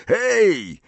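high-pitched "hey" as if from afar; distant call. A narrator's reading. Ron interrupts the kissing couple, distant high call. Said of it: "dochodzący do niego jakby z dużej odległości".

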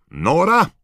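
high, loud shout with a lift. A narrator's reading. George stepping into the fire, shouting his destination. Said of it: "George krzyknął".

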